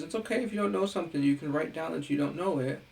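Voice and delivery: quick, high reassuring teacher voice, lightly done; mock teacher. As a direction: imitate a too-easy teacher. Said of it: "if a teacher says".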